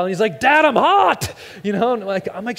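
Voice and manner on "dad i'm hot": put-on high, loud little boy complaining; high whine of a small boy; whiny kid voice. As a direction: play the five-year-old. Son voiced.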